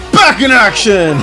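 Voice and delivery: slow, booming announcer call; fighting game announcer. Pretend. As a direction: draw it out like a hype announcer. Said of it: "You're like a football video game announcer".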